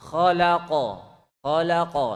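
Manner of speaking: khalaqa with the qaf released clearly; khalaqa, qaf fully released. Shown as a demonstration. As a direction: let the q of khalaqa pop open. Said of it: "lepas bunyinya".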